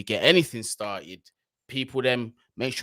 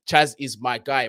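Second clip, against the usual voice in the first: ordinary talk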